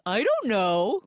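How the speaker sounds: a light smile in the voice; smiling. Retold or imitated. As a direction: shrug it off with a smile. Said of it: "he says, smiling".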